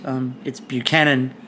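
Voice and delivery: Buchanan said as byoo-KAN-an; correct pronunciation. Shown as a demonstration. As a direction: stress Buchanan on the second syllable.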